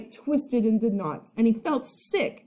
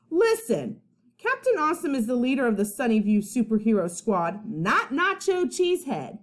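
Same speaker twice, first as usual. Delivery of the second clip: put-on bossy kid voice; 3 semitones higher than usual. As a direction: lay down the law like a bratty kid. Eugene bossing Charlie, swing quarrel.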